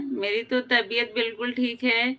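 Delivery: normal talking voice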